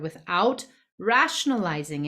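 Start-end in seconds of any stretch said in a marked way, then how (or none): 0.0-0.7 "without" repeated with deliberate emphasis; "without" marked out firmly as the key word; stress on without. Real, not acted. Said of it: "let me emphasize that word".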